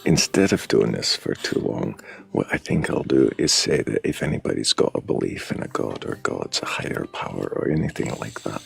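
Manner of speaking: wandering imitation Scottish accent, leaning Aberdeen; host's spiel in fake Scottish; put-on Scottish accent. Shown as a demonstration. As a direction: inconsistent northeast Scottish brogue. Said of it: "He sounds like your Faye Aberdeen".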